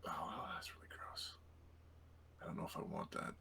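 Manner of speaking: disgusted hushed whisper. Real, not acted. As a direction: breathe it out in disgust.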